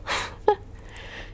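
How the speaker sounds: weary groaning laugh. Real, not acted. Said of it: "Sounds like a world-weary old person groan".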